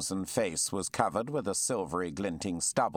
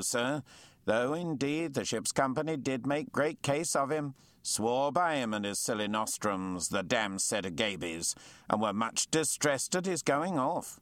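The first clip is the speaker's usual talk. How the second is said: put-on old lieutenant; 4 semitones higher than usual. Lieutenant scorns the surgeon.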